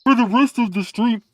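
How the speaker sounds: high, loud, drawn-out put-on voice; mock text-to-speech voice. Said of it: "Did I talk like this".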